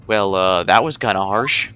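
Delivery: loud reaction. Real, not acted. Reacting to a rude remark.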